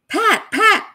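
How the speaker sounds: high, loud screamed name. Retold or imitated. Woken by someone in the house, screaming the name loudly. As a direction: yell the name out in alarm. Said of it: "somebody screaming".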